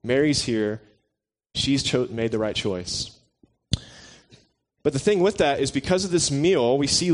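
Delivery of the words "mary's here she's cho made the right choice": gentle, loving. Retold or imitated. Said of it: "very lovingly and very gently saying".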